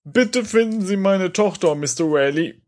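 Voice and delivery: a father pleading for his daughter; pleading baron. Acted. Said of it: "Seine Stimme klingt wie eine zerkratzte Schallplatte".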